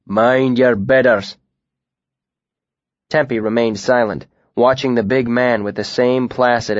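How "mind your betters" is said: slow threatening northern warning; slow northern growl at the boy; low menacing growl. Acted. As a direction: put the boy down. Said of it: "he growled".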